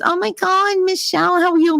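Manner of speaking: high, gushing fake hello; gushing greeter. Relative greeting her at family events, high gushing. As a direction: overdo the delighted greeting. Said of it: "it's always".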